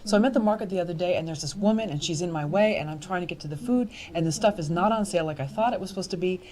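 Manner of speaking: fast, chatty anecdote delivery; straight talk. Shown as a demonstration. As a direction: rattle it off like gossip to a friend. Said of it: "straight talk".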